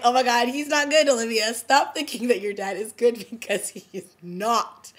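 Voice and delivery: loud, fired-up plea; exasperated plea. Pretend. To Olivia about her dad, a loud exasperated plea. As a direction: scold her to wake up. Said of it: "I was just like".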